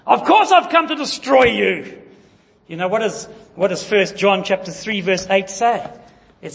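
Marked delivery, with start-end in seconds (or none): 0.1-2.0 laughing. Acted.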